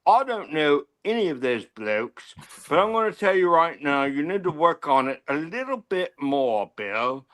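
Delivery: English bloke impression in a British accent; imitated British accent. English fan critiques the host's accent, imitated British accent. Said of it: "I'm imitating that guy".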